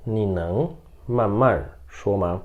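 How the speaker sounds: very slow, every syllable clear; slow model reading. Shown as a demonstration. Teacher modelling the sentence for students, very slow. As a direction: read it slowly for students to repeat. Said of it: "por exemplo".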